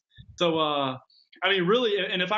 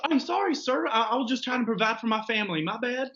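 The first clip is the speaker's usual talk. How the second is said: mock pleading caller; 5 semitones higher than usual. Acting apologetic cold caller.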